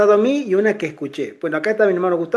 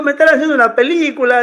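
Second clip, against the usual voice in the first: higher, quick, with a laugh; amused disbelief; 6 semitones higher, 4 dB louder, faster than usual. Retold or imitated. Storyteller suspecting a hidden camera prank, amused disbelief. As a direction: retell bewilderment through laughter. Retelling his baffled, amused reaction.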